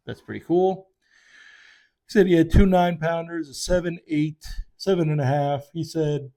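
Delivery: talking through a yawn; words stretched by a big yawn. Real, not acted. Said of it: "I'm yawning into the microphone".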